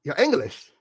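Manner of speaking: mock British accent, flat deadpan repeat. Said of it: "I am very good with the accent".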